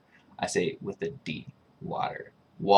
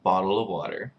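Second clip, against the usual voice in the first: "bottle of water" with D's for T's, Midwestern; Midwestern accent. Shown as a demonstration. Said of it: "Midwestern accents say".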